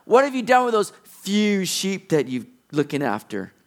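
sneering at his little brother; mild mocking taunt; mocking older brother. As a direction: taunt him with it. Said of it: "he's kind of mocking him".

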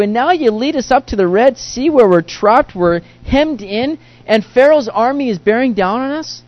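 high, loud, anxious complaint to the Lord; panicked Israelites. Retold or imitated. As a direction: plead like a trapped people cornered at the sea. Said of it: "are wondering".

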